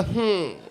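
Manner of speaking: soft questioning hum; short mock-German sigh-hum; creepy German hum. Shown as a demonstration. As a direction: tack on a creepy little hum. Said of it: "like, the, the sigh".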